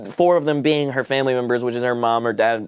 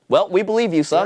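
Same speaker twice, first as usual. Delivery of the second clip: lightly mocked, higher-pitched parent voice; credulous parents; 4 semitones higher than usual. Parents answering their ten-year-old son, mock-credulous. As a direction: imitate easily convinced parents.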